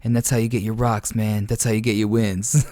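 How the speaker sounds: a hint of a laid-back gamer voice, barely changed; lightly imitating a chill pro player thanking fans; Prioxis impersonation. Caster imitates Prioxis greeting the viewers, lightly voiced. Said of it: "So here's my Prioxis impersonation".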